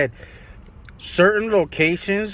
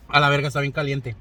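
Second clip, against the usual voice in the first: startled outburst; 4 dB louder, faster than usual. Real, not acted. Scalding broth burns his mouth.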